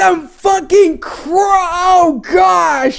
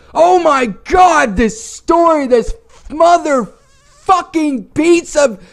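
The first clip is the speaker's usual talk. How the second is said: furious rant; much slower than usual. Real, not acted. Raging about the story.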